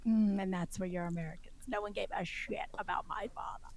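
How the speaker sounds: hushed, deadpan mock-British; badly faked British comic, dropping very soft; horrible British accent. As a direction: let the British punchline hang quietly. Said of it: "it's my horrible British".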